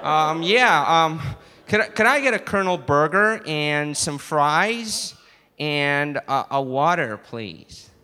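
put-on hesitant order in American accent; American accent, trailing down at the end; American customer. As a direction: order politely, sounding American. American customer ordering at Cape Flats KFC.

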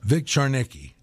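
Charnicki with a CH at the start; attempted name pronunciation. Shown as a demonstration. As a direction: try Charnicki, opening on "char". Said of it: "I'll try it".

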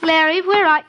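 calling out in alarm, voice breaking; frightened cry. Acted. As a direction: cry his name in panic as you find him. Wife finds Larry hurt, calls out.

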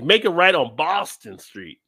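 put-on slow Boston accent GPS voice; a mild Boston accent as a sat-nav woman; mock Boston GPS. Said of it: "she says it as a Bostonian".

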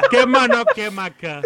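cholo voice. Retold or imitated. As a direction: talk like a cholo from the barrio. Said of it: "si tiene pinta de cholo". (voz de cholo)

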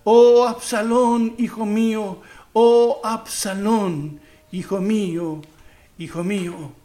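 weeping lament. Acted. The king, face covered, keeps mourning his son with a fading lament. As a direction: call his name out, then let it die away. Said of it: "seguía llorando".

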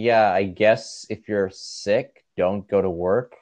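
slow, bored, careless line reading; mock vague read. Mocking the ad actor's lines, slow and bored. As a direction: shrug the line off like you don't care. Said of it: "vaguely saying".

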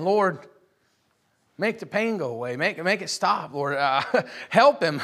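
imitating a helpless, crying prayer; retold tearful plea. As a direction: plead brokenly for a hurting child. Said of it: "I'm, I'm crying".

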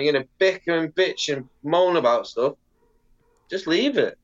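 high at first, settling down; telling squabbling skaters to stop, half-hammed; mock exasperated referee. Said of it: "It's like".

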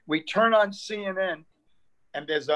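ordinary delivery

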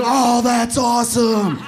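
loud, drawn-out mock delight; hammed-up crowd reaction, stretched out; mock cheering. Retold crowd cheering the news.

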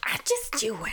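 lightly imitating his friend's mom; casual carefree mom voice; man doing a woman's voice. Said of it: "your impression of your mom".

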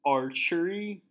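high, loud disbelief; surprised. Acted. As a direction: squeak it out in shock. Chad shocked by firing.

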